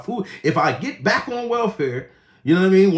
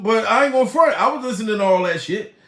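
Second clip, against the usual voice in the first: ordinary delivery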